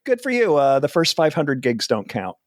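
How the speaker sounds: offhand, mildly dismissive brush-off; nonchalant. Retold or imitated. Famous comedian brushing off a cocky beginner, nonchalant. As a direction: toss it off casually, starting high and settling. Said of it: "in kind of a nonchalant way".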